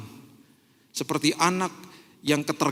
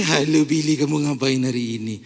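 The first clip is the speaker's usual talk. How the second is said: low cooing sing-song; baby talk; 4 semitones lower than usual. Shown as a demonstration. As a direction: coo like talking to a toddler. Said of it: "Tuhan ngomong sama saya gini".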